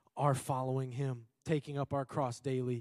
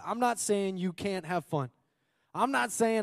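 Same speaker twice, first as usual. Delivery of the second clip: emphatic denial; 6 semitones higher, 3 dB louder than usual. Real, not acted. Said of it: "correcting misunderstanding, pitch up".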